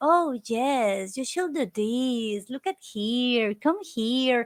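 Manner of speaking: mock-sweet, sugary, gentle feminine voice. Describing how the villain talks to the Powerpuff Girls, doing a mock-sweet feminine Him voice. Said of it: "it is so sweet and it is feminine".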